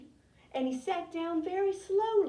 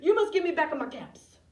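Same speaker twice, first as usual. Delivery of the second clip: angry storybook shout; 2 semitones higher, 5 dB louder than usual. A narrator's reading. Peddler shouting at monkeys for his caps, angry. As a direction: raise your voice as the cross peddler. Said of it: "he stamped both his feet and he shouted".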